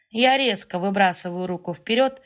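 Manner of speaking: usual speaking voice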